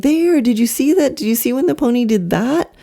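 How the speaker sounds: put-on high, lively teacher pointing it out to a child; excited teacher to child. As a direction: pitch up brightly, as if showing a small child. Acted teacher showing a seven-year-old.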